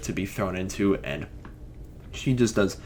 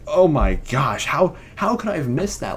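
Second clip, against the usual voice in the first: retold amazement; 3 semitones higher, 4 dB louder than usual. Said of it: "and I was just like".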